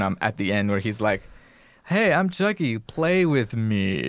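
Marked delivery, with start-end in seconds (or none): 1.8-4.1 high, then slow toy voice; sing-song talking toy doll. Retold or imitated. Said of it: "dips down into the doll's voice".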